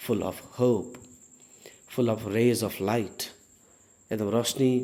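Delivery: very slow and glowing; slow, dreamy. Shown as a demonstration. Teacher painting the optimist: slow and hopeful. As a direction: linger on every word, hopeful. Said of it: "example of optimist".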